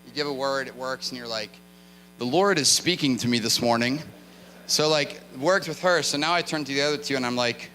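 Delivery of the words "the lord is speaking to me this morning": hammed-up, assured preacher announcement; mock confidence. Minister boasting after one word works, mock confident. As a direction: proclaim it with playful overconfidence. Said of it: "now I'm all confident".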